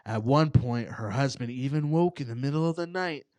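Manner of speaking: slow, hushed ghost story telling; spooky story narration. Acted. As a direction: draw out the creepy details slowly. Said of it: "serious, spooky voice".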